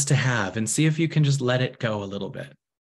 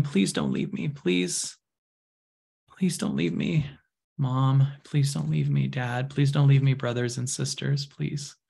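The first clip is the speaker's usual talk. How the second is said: lightly voiced child, softly begging; soft, repeated plea to the family; pleading little girl; 3 dB quieter than usual. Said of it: "the girl going".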